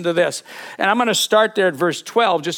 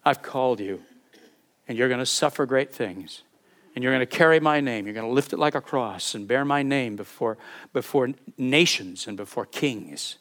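prophet speaking; 7 semitones lower, 6 dB quieter than usual. Retold or imitated. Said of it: "and says".

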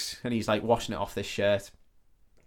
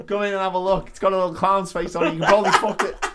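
lightly voiced weirdo; 7 semitones higher, 4 dB louder than usual. Voicing the weird stall guy.

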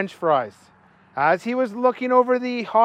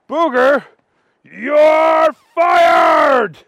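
loud, high angry shout; furious firing; 9 semitones higher, 7 dB louder, much slower than usual. Acted. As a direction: blast him with the news. Manager fires Booger.

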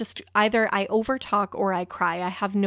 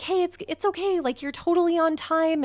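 reassuring; 7 semitones higher than usual. Retold or imitated. Hero reassures her, voiced by teller.

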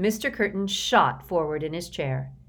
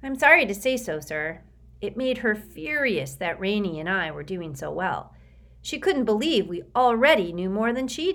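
put-on higher, anxious boy's voice; a frightened boy pleading; nervous Sticky; 4 semitones higher than usual. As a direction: recite a memorized apology, eager to please. Sticky explains the pressure.

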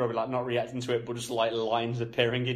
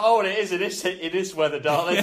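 mock posh lady; 5 semitones higher, 6 dB louder than usual. Imitating the posh woman.

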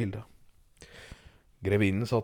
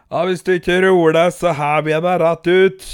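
a stern guard's voice, louder and higher; gruff guard; 3 semitones higher, 7 dB louder than usual. Acted. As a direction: bark the threat like a guard at the door. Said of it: "sa vakta". (streng vakt som truer)

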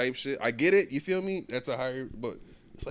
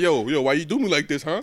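mock complaint to God; 7 dB louder than usual. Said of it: "I'm like".

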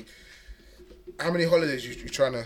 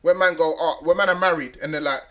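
excited rant; 5 semitones higher, 8 dB louder than usual. Real, not acted. Animated rant about married men.

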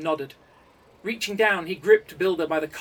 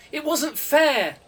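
slow, drawn-out bellow, much higher and louder; 11 semitones higher, 7 dB louder, much slower than usual. A narrator's reading. Coder bellowing at the meeting table. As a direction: roar out the protest at the injustice. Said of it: "Builder bellowed".

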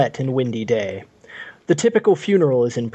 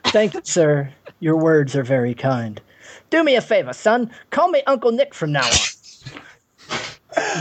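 Cockney. Acted. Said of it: "like Bert in Mary Poppins".

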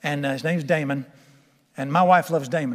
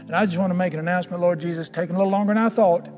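closing prayer. Real, not acted. Pastor praying over his congregation, gentle and earnest.

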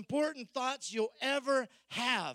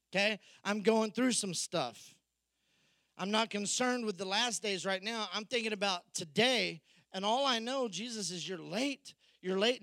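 exasperated Martha; 3 dB louder than usual. Retold or imitated. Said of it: "Martha answered".

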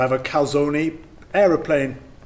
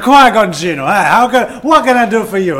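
badly faked Italian restaurateur; bad Italian accent; 4 semitones higher, 7 dB louder than usual. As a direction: welcome a diner in a hammed-up Italian accent. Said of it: "I can't do the fucking accent".

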